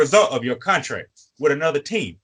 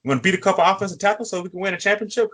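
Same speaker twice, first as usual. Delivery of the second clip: higher, fast, coaxing call to a missing player; mock pleading teammate; 5 semitones higher, faster than usual. Titans staff coaxing Vic to show up, higher and fast. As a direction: imitate the team begging him to show up. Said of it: "be like".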